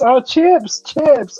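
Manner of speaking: retold dawning realization on "chips", short i; correctly said chips. Friend shown a chip finally understands, exclaiming "chips". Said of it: "she was calling them sheeps".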